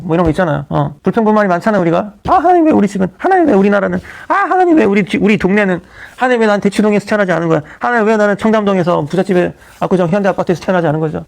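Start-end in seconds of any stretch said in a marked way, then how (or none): 2.3-11.2 mock grumbling. Pastor acting out believers asking God why not a richer neighborhood, grumbling. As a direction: imitate someone griping at heaven. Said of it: "그런 어떤 푸념들을 우리가 간간히 하잖아요".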